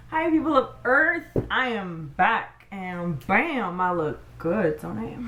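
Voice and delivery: showing off with sass; peacocking. Real, not acted. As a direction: strut it, pleased with yourself. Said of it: "showing off finished makeup look".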